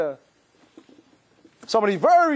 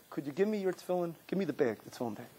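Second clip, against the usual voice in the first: much softer, low and gentle; quiet father; 4 semitones lower, 14 dB quieter, faster than usual. Retold or imitated. Father quietly asks the son for the bag. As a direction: ask it almost under the breath. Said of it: "he says".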